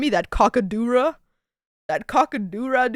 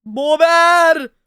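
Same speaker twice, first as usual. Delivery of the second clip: beaver voice; 4 semitones higher, 6 dB louder, much slower than usual. Pretend. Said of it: "A bober".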